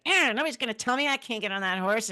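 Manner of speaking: a hint of a stubborn young rider; defiant, feisty. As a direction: play her full of piss and vinegar. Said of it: "I could see you piss and vinegar".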